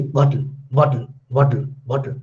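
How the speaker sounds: "bottle" with the t swallowed into a glottal stop. Shown as a demonstration. Teacher showing a British dialect's glottal stop in "bottle". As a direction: say "bottle" as "bo'le", t caught in the throat. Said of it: "that is glottal sound".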